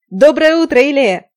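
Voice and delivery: loud, high bellowed greeting; parade-ground shout. A narrator's reading. Heroine shouts to wake the dozing shopkeeper, bellowing. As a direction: yell it like a drill sergeant on parade. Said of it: "как на параде закричала дурным голосом я".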